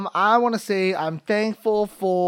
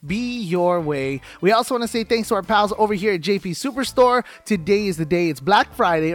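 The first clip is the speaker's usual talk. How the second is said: podcast ad read. Acted. Podcast intro and sponsor reads.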